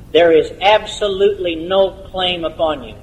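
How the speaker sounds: deliberate weight on each word, "absolutely" punched out; emphatic. Real, not acted. Preacher answers those who fear the doctrine, emphatically stressing "absolutely". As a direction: lean hard on "absolutely" and "no claim". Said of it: "we're going to say it emphatically".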